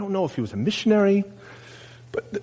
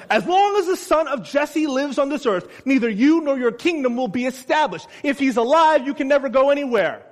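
angry king; 9 semitones higher than usual. Acted. Furious king threatening Jonathan before the party. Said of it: "Saul's anger flared up".

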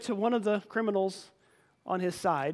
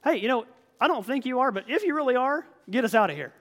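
desperate plea; 5 semitones higher, 4 dB louder than usual. Retold or imitated. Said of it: "I'm gonna say whatever I need".

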